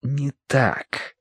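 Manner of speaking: softly murmured objection; hushed, private protest; muttered under breath. A narrator's reading. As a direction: mutter it half aloud. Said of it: "пробормотал Сыма Цянь вполголоса".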